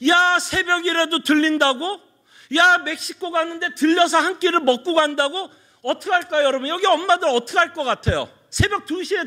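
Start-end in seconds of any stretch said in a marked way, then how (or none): 0.1-5.5 높은 음으로 되묻는 엄마 흉내; 놀라 되묻기. Acted. 아들의 새벽 방문에 되묻는 엄마 연기. (놀란 엄마처럼)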